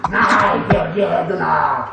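lightly voiced monster, growling slowly at the door; a hint of a beast about to chew the door; mock monster growl. Prankster playing the mutant to scare the commissioner, mock growl.

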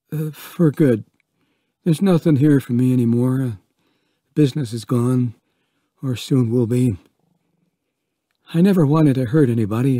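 rushed, hinted voice of a broken mayor; lightly voiced Vaughn. Vaughn saying farewell to Ellen, lightly voiced and hurried.

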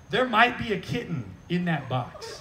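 lightly mimicking his wife through a laugh; laughing wife impression. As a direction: giggle out her worry about the kitten. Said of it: "imitating wife, laughing".

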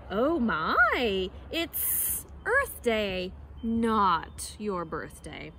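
drawn-out, slithery snake; slow snake voice. Acted. Snake in the trees answers Monkey, slow and slithery. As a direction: stretch each word like a snake. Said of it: "she raised her head and said".

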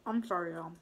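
apologizing mid-chew; mouth full. Real, not acted. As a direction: talk around a bite of fat. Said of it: "That was a piece of fat".

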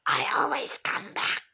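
a whispered villain taunt; spooky whisper. Pretend. Kid voicing a game villain in a spooky whisper. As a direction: breathe it like a lurking ghost.

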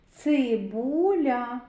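цибуля stretched slowly sound by sound; drawn-out sounding-out. Shown as a demonstration. Teacher sounding out цибуля for children, slowly drawn out. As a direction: say цибуля very slowly, holding the vowels. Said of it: "звуковий аналіз слова цибуля".

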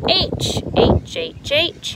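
H as a breathy huh, high; letter sound drill. Shown as a demonstration. Teacher modelling the H sound for pupils, breathily. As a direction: puff out the H sound, repeated. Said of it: "What letter is that?".

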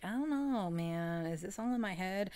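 a hint of mock bewilderment; imitated self-doubt. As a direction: act out his puzzled second-guessing. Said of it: "and he's like".

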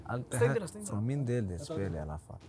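låg, dämpad konspiratorisk röst; hemlighetsfullt lågt. Real, not acted. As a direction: prata tyst så att bara laget hör. Lowered aside plotting with own team. (lågmält, i förtroende)

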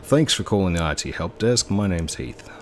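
lightly done Australian help desk voice; Australian accent. Pretend. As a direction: answer the phone as an Australian. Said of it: "Do the Australian voice".

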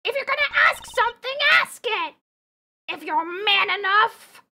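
high, forceful lady voice; challenging lady character. Acted. Lady daring Apollo to ask, high forceful challenge. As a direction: dare them, pitched well up.

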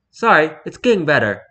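put-on stereotypical posh English accent, lightly done; mock posh English apology. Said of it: "in a stereotypical posh English accent".

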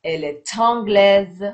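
"est anglaise" linked as "è-tanglaise"; teacher's clear model with a t joining "est anglaise"; with liaison. Shown as a demonstration. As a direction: sound the t of "est" at the start of "anglaise". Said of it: "چون ت داره".

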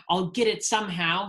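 mild storybook yell; acted yell at moderate volume. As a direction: say it forcefully, determined. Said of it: "he yelled".

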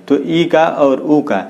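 ई and ऊ spoken slowly and drawn out; teacher slowing down to model the vowels; slow demo. Shown as a demonstration. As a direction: stretch each vowel so students hear it. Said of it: "तो बोल के देखिए".

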